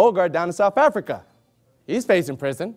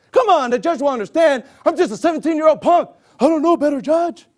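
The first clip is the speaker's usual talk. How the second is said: put-on pleading teen; 6 semitones higher than usual.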